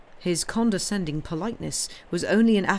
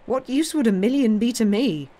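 higher and louder, amused scorn; scoffing disbelief; 5 semitones higher, 5 dB louder than usual. A narrator's reading. Count mocks the banker's offer with amused scorn. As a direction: laugh off the paltry sum.

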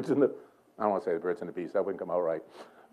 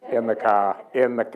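put-on Boston accent; 2 semitones lower than usual. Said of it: "that's Boston".

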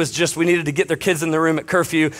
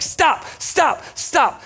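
calling after them; 10 semitones higher, much slower than usual. Retold or imitated. Chasing kids on beach.

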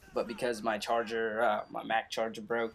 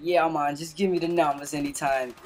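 lightly imitated Jamaican accent; a hint of Jamaican patois; 3 semitones higher, 3 dB louder than usual. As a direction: do a laid-back Jamaican man. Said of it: "He was, like, Jamaican".

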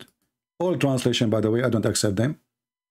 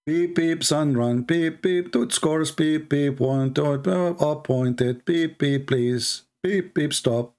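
mock beeping; much slower than usual. Mocking the seven readings as nonsense.

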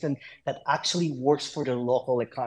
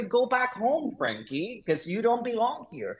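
mock taunt; 8 semitones higher than usual. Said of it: "And people say".

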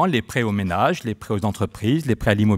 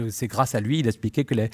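ordinary talk, nothing marked

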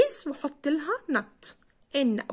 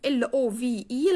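slow spelling; much slower than usual. Shown as a demonstration. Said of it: "spelling love slowly".

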